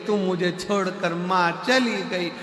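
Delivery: sing-song fake lament; a daughter-in-law's sung mock mourning; mock wailing daughter-in-law. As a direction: wail the mother-in-law's loss like a dirge. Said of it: "बहू रो रही थी".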